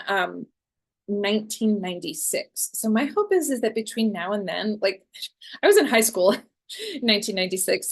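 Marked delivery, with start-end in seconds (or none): 5.6-7.9 laughing. Real, not acted. Laughs at own age.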